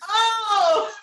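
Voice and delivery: loud, high shocked oh; surprised. Real, not acted. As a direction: gasp it out in shock. Shocked reaction to show.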